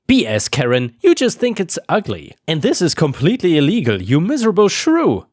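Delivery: high, fast angry retort at Karen; shouted back. Retold or imitated. Neighbor shouting back at HOA president Karen: angry yell. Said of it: "I shouted back".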